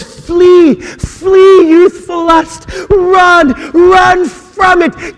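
high, loud, slow cry of flee; impassioned preaching shout. Acted. Pastor crying Paul's warning to the congregation, loud and high. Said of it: "Paul says".

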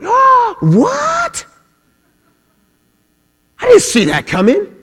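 hammed-up, squeaky high astonished gasp; mock surprise. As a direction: play God comically caught off guard. Mock God caught by surprise.

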